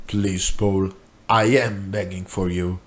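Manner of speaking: low, soft begging voice; a hint of a broken man pleading; pleading friend. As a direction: beg him quietly and desperately. Rob begs again.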